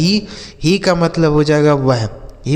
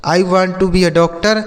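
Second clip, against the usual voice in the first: put-on each word spaced out for children; slow classroom reading; slow dictation pace; much slower than usual. Shown as a demonstration. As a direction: say it slowly so kids can copy. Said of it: "teacher repeats model sentence".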